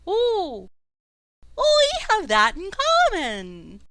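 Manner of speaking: high, proud croaking king voice; warbly frog king. Acted. Frog king chats with the passing warriors, high and warbly. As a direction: play the pompous frog king. GM holds the king's voice.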